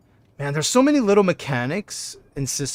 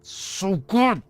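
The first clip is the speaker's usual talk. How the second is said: slow, higher, drawn-out glee; so excited; 6 semitones higher, 4 dB louder, much slower than usual. Real, not acted. Streamer thrilled at his first try, drawn out and gleeful. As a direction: savour every word of the excitement. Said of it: "I'm just so excited".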